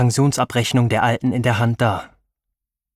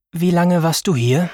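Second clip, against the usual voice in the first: put-on old woman voice; 6 semitones higher, 3 dB louder than usual.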